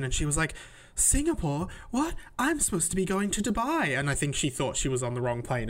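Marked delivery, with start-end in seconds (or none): 0.9-4.0 imitating a baffled, frustrated passenger, slightly higher; mildly exasperated mock disbelief; retold frustrated confusion. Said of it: "she was getting really frustrated".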